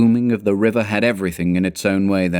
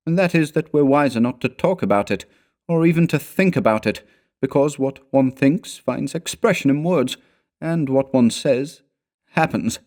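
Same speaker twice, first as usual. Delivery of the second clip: higher-pitched, ominous warning; hushed dread without lowering the voice; grave companion; 7 semitones higher than usual. A narrator's reading.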